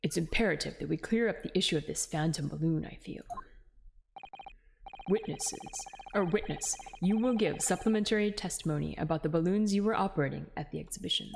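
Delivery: low, measured courtroom authority; formal judge. Acted. Judge ordering supplementary testimony from a witness, formal and stern. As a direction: deliver it as a formal ruling from the bench.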